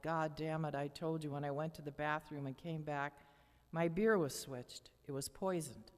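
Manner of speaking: a father's accusing outburst, only lightly voiced; mild yell. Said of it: "He yelled".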